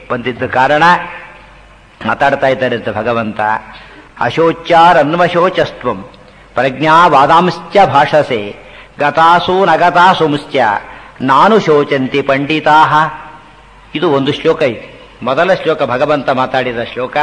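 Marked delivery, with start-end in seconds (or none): 4.2-12.9 slow, measured shloka with words run together; slow scriptural recital in joined phrases; Sanskrit verse recitation. Acted. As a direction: recite the verse line by line, long vowels drawn out.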